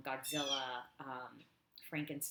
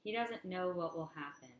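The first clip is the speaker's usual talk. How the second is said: measured recital, each line starting up and falling away; deliberate poetry-reading cadence; poem reading. Acted. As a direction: read it as verse, line by line.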